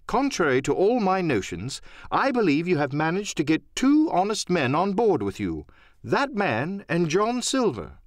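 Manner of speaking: a hint of a thoughtful gentleman conceding; the doctor. Doctor voiced in story.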